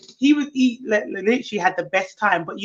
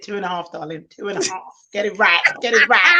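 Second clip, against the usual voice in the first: smug correction; 4 semitones lower than usual. Retold or imitated. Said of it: "I said".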